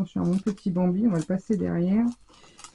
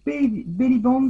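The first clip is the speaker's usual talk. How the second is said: English accent; 5 semitones higher than usual. Real, not acted. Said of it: "avec mon accent anglish".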